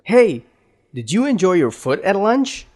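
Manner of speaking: "foot" said for food, vowel cut short; chatty question with food squeezed into "foot"; squeezed vowel example. Acted. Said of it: "it's gonna sound like foot".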